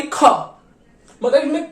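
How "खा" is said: खा from the throat, kh and h blended; guttural kha. Shown as a demonstration. Teacher demonstrating German throat sound खा. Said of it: "ये गले से निकलती है हमारी".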